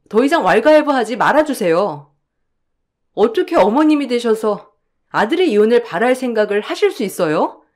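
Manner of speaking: sharp rising protest, peaking at 끔찍하네요; defiant. Acted. Daughter-in-law refusing mother-in-law's orders, defiant. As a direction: stand up to her at last.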